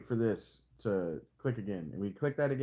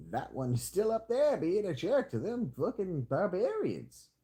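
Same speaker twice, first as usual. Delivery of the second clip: slow, higher cartoon redneck drawl; cartoon redneck accent; 8 semitones higher than usual. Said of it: "I don't know why I'm a cartoon redneck".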